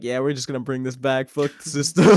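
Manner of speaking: loud rallying cry, swelling on the last words; mock defiant cry. Stoned friends deciding to keep the weed, mock defiant shout. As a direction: blurt it out as a rowdy stoner's slogan.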